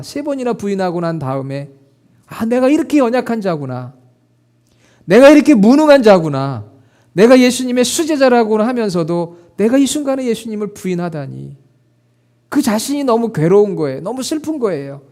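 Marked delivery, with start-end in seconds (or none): 2.3-11.6 rising anguished cry, loud on the second line; Peter's lament. Acted. Peter grieving after denying Jesus, anguished cry. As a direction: cry out your own weakness as Peter.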